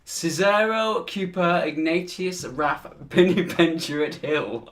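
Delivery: lightly put-on posh English accent. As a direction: read the names with a touch of posh grandeur. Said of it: "the most posh voice you can".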